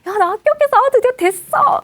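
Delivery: high-pitched acted elation; squealed happy announcement; excited good news. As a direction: announce your big success, thrilled. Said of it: "취업에 합격을 한 거예요".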